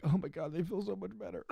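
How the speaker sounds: relieved, laughing thanks; laughing relief. Retold or imitated. Wrestler thanking his chiropractor, laughing relief. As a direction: gush thanks through a laugh.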